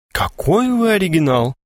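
a prim lady lightly astonished; amazed. A narrator's reading. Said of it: "удивилась Евдокия Антоновна".

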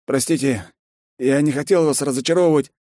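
lightly voiced nervous general; general's voice. General apologizes.

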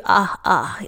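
rough Australian moans; rough Australian accent. Acted. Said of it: "in that rough Australian accent".

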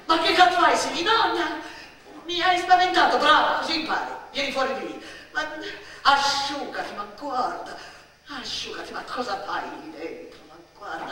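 put-on very loud, high yell at a hiding child; furious scolding shout. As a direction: scare her right back, then jeer. Adult catches child hiding, scolds. (sgridata furiosa, urlata e acuta)

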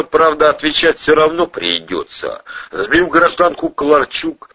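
usual speaking voice

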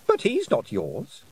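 silky, mocking fairy queen voice. Queen taunting Tiffany with a cool, mocking voice. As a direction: taunt her sweetly from above.

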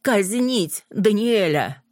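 slow, loud, high-pitched demand; defiant loud slow call; loud and distinct. A narrator's reading. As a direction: spell out each word of the death sentence. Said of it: "ещё раз громко и отчётливо произнесла".

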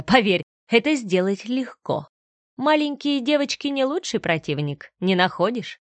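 a hint of nasty menace; villain threatening the mother, coldly sneering; lightly voiced cold villain. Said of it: "холодно и противно".

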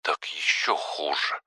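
soft grumble down the phone; muted, mildly sulky reply; grumbling. A narrator's reading. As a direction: grumble it under your voice. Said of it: "пробурчала Марина".

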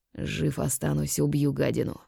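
quiet angry hiss through teeth; through gritted teeth. Acted. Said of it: "процедил со злостью".

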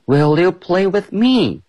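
high, slow eager plea; a young kangaroo begging Ted to play; eager asking. Acted. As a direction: ask like a keen little kangaroo. Norma Jean asks Ted, eager.

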